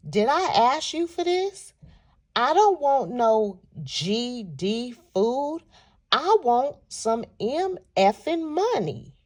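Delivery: mock indignant, drawn-out complaint; imitating an offended, slow-paced demand. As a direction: act out an ungrateful man's demand, stretching the words. Ungrateful man rejects the food.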